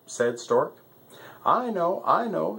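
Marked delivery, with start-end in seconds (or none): 1.4-2.6 eager. Acted. Lion eager to answer.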